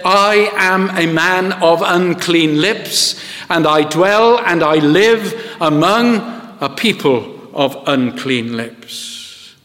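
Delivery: slow, humble confession in Isaiah's voice; confessing Isaiah. Retold or imitated. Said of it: "He said".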